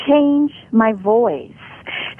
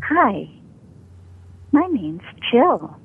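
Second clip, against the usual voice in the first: small, meek, timid Jill; victim voice; 2 semitones higher, slower than usual. Shown as a demonstration. Voice coach demos a voice that invites abuse, meek. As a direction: sound like an easy target. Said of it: "a voice that attracts someone to abuse me".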